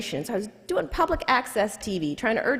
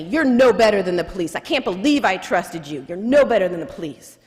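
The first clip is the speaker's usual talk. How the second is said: louder retold yell, not a full scream; 3 semitones lower, 3 dB louder than usual. Client storming out of the office, mock yelling at the lawyer. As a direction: throw the accusation at him as you storm out. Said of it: "He walks out yelling at me".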